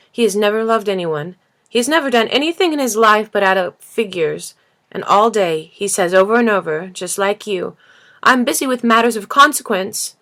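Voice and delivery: loud, climbing indignation; a child's anger growing line by line; rising anger. Acted. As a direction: build from heated to furious. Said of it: "was now white with rage".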